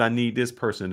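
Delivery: ordinary talk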